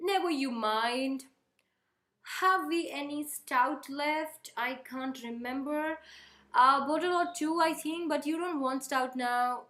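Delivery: slow, brushing-off reading; slow stage reading of a curt mother; acted curt mother. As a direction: read it drawn out and dismissive. Reads mother's lines in play.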